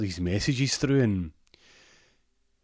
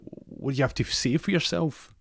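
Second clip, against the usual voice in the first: high-pitched mock scolding; scolding girlfriend; 7 semitones higher than usual. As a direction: demand an explanation as the fed-up girlfriend. Girlfriend demands an explanation.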